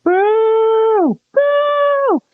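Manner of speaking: high playful boos; mock booing. Kids booing Thomas on screen, high and playful. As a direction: boo the villain like a pantomime crowd.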